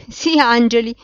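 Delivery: loud, high scoffing outburst; bursting into mockery. A narrator's reading. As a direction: burst out loudly, as if about to laugh. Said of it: "scoppiò a ridere".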